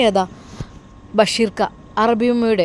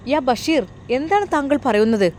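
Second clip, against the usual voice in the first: higher-pitched, disbelieving question; taken aback; 4 semitones higher than usual. Acted. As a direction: react with startled concern. Employer shocked by his confession. (അമ്പരപ്പോടെ ചോദിച്ച്)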